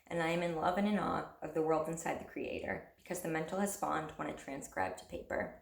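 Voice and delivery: measured recital of a poem, softening at line ends; poem reading. Acted. Poet reading a written prayer to viewers, poem reading. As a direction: read your poem in even, falling phrases.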